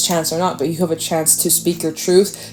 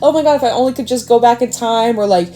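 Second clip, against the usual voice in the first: much higher, whiny voice of someone full of regret; mock regretful client; 8 semitones higher than usual. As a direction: play the panicked client begging to undo it.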